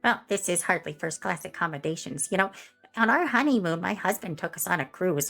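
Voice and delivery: snobby Karen. Acted. Karen bragging about her honeymoon cruise, snobby swoon. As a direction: swoon over the memory.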